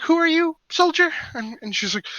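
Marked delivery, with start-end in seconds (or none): 0.0-1.1 suspicious squint. Acted.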